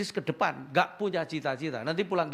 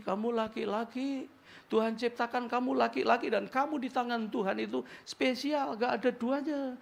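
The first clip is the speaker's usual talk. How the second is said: tender father; 7 semitones higher than usual. Retold or imitated. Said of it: "harusnya papanya kasih identitas".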